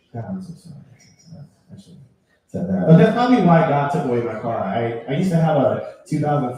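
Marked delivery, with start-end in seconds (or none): 0.1-2.9 low, hushed acted contrition; sheepish apology. Driver apologising to God after swearing, sheepish apology. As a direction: drop down low and say sorry.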